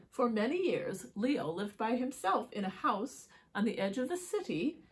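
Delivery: even, articulate picture-book reading; story narration. A narrator's reading. Reading Leo's ghost story to children, measured storytelling. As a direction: tell it steadily to young listeners.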